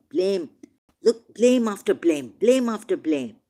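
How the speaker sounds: impassioned, rising indignation; heated blame. Real, not acted. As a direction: hammer each blame home. Heated preaching against blame.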